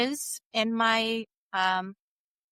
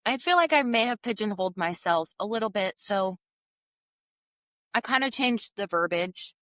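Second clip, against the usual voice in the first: chewing while talking. Real, not acted. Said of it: "Sorry, I'm chewing on some Smarties".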